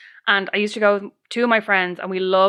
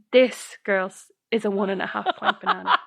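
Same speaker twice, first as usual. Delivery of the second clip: so serious. Retold or imitated. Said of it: "like, so serious".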